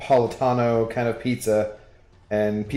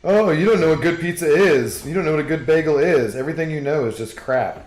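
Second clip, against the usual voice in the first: snooty New Yorker; 4 semitones higher, 5 dB louder than usual. Retold or imitated. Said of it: "What I've been told".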